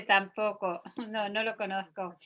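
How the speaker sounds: soft, chuckling confession of ignorance; quiet amused admission that he doesn't know it; laughing admission. Retold or imitated. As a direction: laugh through the sheepish denial. Man admits he never saw it.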